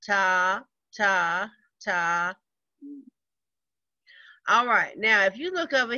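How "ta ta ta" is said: "ta" chanted evenly on each beat; steady beat-by-beat "ta" reading; rhythm syllables. Shown as a demonstration. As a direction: tap out each "ta" like a quarter note. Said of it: "Now the fourth one".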